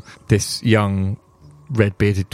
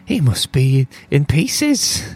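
dwarf voice; 6 semitones higher, much slower than usual. Acted. Dwarf worries about father.

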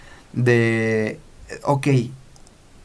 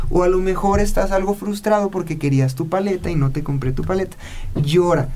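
muy amoroso; 5 semitones higher than usual. Retold or imitated. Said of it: "muy, muy amoroso".

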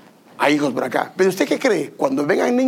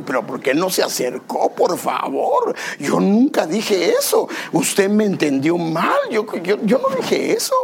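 pleading protest. Retold or imitated. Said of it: "A la hermana le digo".

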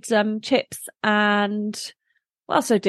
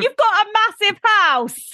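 high, laughing protest; playfully indignant outburst; mock outrage; 11 semitones higher, 4 dB louder than usual. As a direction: protest loudly through laughter, voice jumping up. Mock outrage at not being invited.

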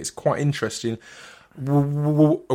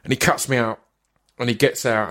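ordinary talk

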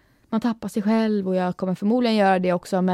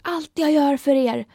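martyred mother; 6 semitones higher, 4 dB louder than usual. Retold or imitated. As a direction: play the self-sacrificing mother laying on guilt. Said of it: "min mamma har ... sagt så här".

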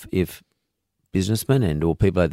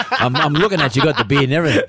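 higher-pitched teasing through laughter; amused, laughing; 8 semitones higher, 4 dB louder than usual. Real, not acted. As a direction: play along with the joke, laughing as you talk. Joking reply to Jesus quip.

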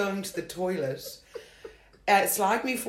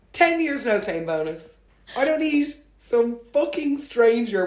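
outraged retort; 3 semitones higher, 5 dB louder than usual. Retold or imitated. Furious at date over woman driver jibe, loud.

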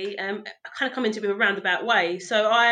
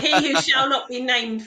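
mock ominous title; 3 semitones higher, 3 dB louder, slower than usual. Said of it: "I'm gonna have to call him".

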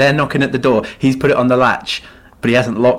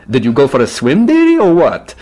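put-on old woman voice; 3 semitones higher, 4 dB louder than usual. Old woman teasing him.

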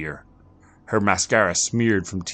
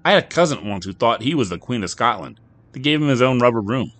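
lightly voiced bartender, a bit raised; a hint of a gruff barkeep; 7 semitones higher, 7 dB louder than usual. Bartender sizing up a confused customer, lightly voiced.

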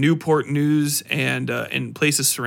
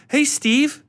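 bright, higher eager interviewer greeting; mock a chirpy talk-show host, pitched up; 11 semitones higher than usual. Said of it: "They're just like".

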